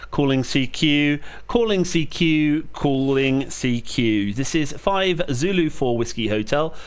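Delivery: steady, clipped radio call sign readout; radio call procedure. Real, not acted. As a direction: call it out like a ham operator. Calling CQ on ham radio.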